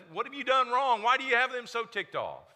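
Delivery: exasperated demand. Acted. Preacher acting Pilate questioning Jesus.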